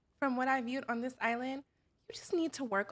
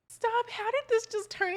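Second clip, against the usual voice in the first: mock disbelief; 10 semitones higher, 5 dB louder than usual. Host reacts to love story.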